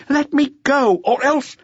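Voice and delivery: high, loud desperate yell; shouting. Acted.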